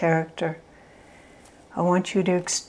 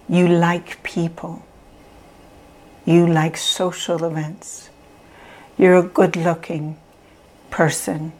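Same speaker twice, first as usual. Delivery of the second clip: gentle affirmations. Shown as a demonstration. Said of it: "repeating the positive things".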